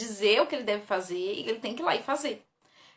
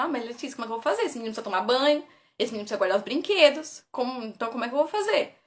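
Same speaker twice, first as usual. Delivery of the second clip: quoting a doubtful parent; 4 dB louder, faster than usual. Retold or imitated. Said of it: "Você fala".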